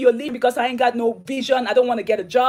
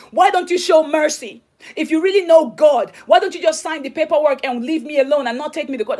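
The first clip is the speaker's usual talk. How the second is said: louder, imitated insistent plea; pleading husband; 4 semitones higher, 4 dB louder than usual. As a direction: reenact his demand for mercy, pressing each question. Voicing husband begging for mercy.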